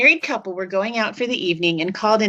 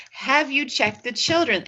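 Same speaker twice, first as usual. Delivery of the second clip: persistent caller; 4 semitones higher than usual. Retold or imitated. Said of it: "the voice ... is more persistent".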